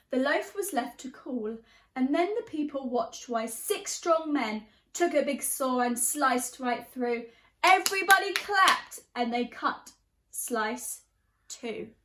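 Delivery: lively storybook reading in rhyme; teacher reading a picture book, animated; reading to children. A narrator's reading. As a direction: bounce the verses for a class. Reads picture book aloud.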